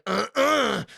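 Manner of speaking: high, loud playful uh-uh; teasing taunt. Retold or imitated. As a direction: tease like a tickler. Tickler teasing.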